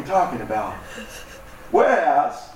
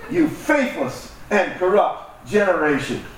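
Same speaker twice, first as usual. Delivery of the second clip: slow, amused reading of the rebuke; slow chuckling quote of the rebuke; laughing while quoting; slower than usual. Retold or imitated. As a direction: let a laugh colour the harsh words. Jesus quoted, speaker laughing.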